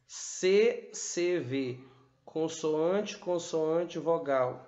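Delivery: C C V letra por letra, bem devagar; slow spelled out. Shown as a demonstration. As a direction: soletre C C V pausadamente, como professora. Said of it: "soletra a estrutura silábica". (soletrando C C V bem devagar)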